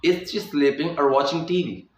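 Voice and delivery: or linked onto watching; linked or sound. Shown as a demonstration. Teacher showing linked or before watching. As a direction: slide the or straight into watching. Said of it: "मैंने यहाँ पे specify किया है".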